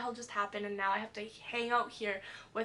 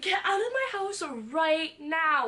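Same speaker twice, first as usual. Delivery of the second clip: mild mock yell, higher and drawn out; retold scream; 4 semitones higher, 4 dB louder than usual. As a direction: act out screaming, without full volume. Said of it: "And then I start screaming".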